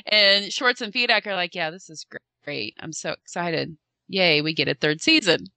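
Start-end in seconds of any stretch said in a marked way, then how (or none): 1.5-5.5 faked excitement. Colleagues answer Zach's good news, faking the excitement. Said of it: "faking the excitement".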